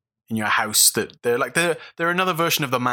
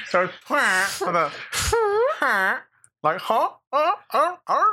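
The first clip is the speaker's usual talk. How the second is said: making fart noises; 9 semitones higher, slower than usual. Real, not acted. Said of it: "Why is it a goose noise".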